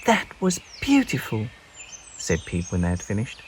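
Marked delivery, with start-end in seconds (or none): 0.0-1.5 small bird voice. Acted. Peep voiced high.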